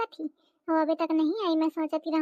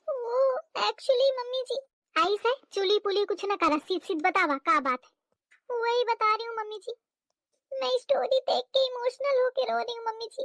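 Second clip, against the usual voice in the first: tearful; 3 semitones higher than usual. Acted. Bride tearfully explaining to mother-in-law.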